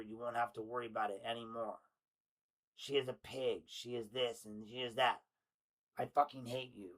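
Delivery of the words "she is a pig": ordinary talk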